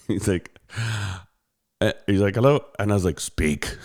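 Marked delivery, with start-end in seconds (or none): 2.3-2.6 higher, insistent mock Indian-accent hello; repeated Indian-accented phone greeting. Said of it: "guy with an Indian accent". 3.2-3.8 low, curt one-word demand; brusque, lowered phone answer; rude. Retold or imitated. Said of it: "I was being kind of rude to him".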